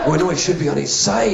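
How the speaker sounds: lightly indignant Scottish doctor; mild mock protest. Doctor contradicting first aider, mildly indignant.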